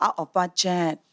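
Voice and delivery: put-on Singaporean accent. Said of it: "that was really good Singaporean accent".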